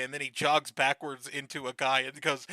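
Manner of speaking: usual speaking voice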